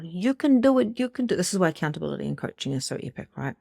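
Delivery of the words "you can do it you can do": high-pitched cheering shoulder angel; little angel. Acted. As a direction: squeak encouragement like a tiny angel. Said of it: "a little angel on your shoulder".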